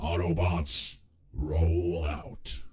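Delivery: flat, monotone character voice. Asking whether the voice is still allowed, then doing Optimus Prime voice. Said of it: "go back to the Optimus Prime voice".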